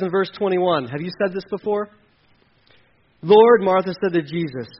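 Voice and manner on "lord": anguished cry. Acted. Martha crying out to Jesus.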